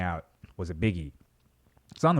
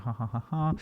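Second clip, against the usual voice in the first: fake laugh; 3 semitones higher, 4 dB quieter than usual. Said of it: "that's where I pause for laughter".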